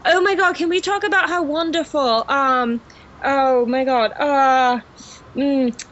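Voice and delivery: enthusiastic put-on British accent; English accent. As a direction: gush in an assumed English accent. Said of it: "heard me speak with an English accent".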